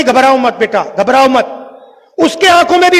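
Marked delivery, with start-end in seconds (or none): 0.0-1.4 gentle reassurance. Retold or imitated. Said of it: "कह रहा है कि".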